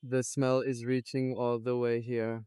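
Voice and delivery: strained, breath held in; talking while holding breath. Real, not acted. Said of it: "I'm holding my breath".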